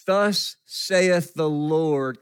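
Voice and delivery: slow, measured proclamation; lightly voiced prophet delivering God's word; prophetic proclamation. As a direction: declare it slowly, like a prophet. Acting a prophet's formal proclamation.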